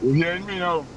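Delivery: faint caller on speakerphone; distant speakerphone voice; phone held away. Real, not acted. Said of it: "Speak into the phone".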